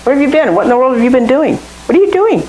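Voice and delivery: high, exasperated parent scolding; mock exasperated parent. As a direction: demand it like a fed-up parent. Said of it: "How many times does he ask you".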